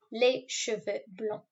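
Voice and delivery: Les cheveux blonds said slowly, each word clear, blonds ending nasal with a silent d; slow French model. Shown as a demonstration. Teacher modeling French hair words for pupils, slow and clear. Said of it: "So I have blonde hair".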